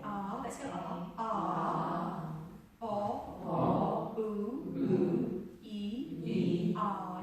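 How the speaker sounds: loud, drawn-out vowel sounds; open vowel shapes. Shown as a demonstration. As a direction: shape each vowel big in the mouth. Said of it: "they're just shapes in the mouth".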